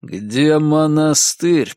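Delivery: very slow, menacing question; slow, tight-jawed demand; through gritted teeth. Acted. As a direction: draw each word out through clenched teeth. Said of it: "процедил я".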